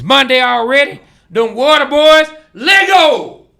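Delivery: shouted high and loud hype call; exclamation marks. Acted. Host shows how to say the comment, shouted. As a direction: yell it like a rallying cry. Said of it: "you gotta say it with exclamation marks".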